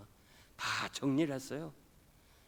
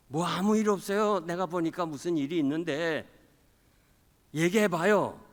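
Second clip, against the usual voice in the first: insistent wife; 5 semitones higher, 7 dB louder than usual. Retold or imitated. Wife pressing her husband.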